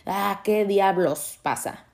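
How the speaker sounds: slow, drawn-out, fed-up sigh of a line; exasperated. Retold or imitated. On a bad day, asking what is going on, slowly exasperated. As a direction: drag it out like you've had enough. Quoting a bad day's thought.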